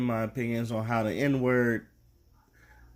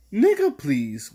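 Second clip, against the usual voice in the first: heavy emphasis on "Nigga", punched and loud; mock white person saying it; 5 dB louder, slower than usual. Imitating a white person over-stressing "Nigga", louder. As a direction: lean hard on "Nigga" like an outsider trying too hard. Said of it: "they go".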